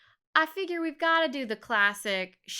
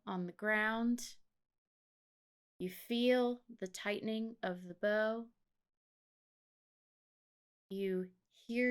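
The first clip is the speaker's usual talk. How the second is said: guided meditation; 4 dB quieter than usual. Acted. Host guiding listeners into being Oliver Queen, calm meditation voice. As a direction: guide the listener gently into the scene.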